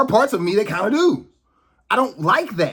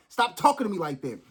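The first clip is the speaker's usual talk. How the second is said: calmer repeat; 2 semitones lower, 5 dB quieter than usual. Real, not acted. After apologizing to viewers, calmer softer repeat. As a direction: pull back and say it gently. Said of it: "I'm sorry".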